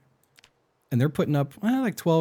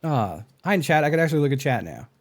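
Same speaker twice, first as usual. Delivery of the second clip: excited greeting; 5 semitones higher, 6 dB louder than usual. Real, not acted.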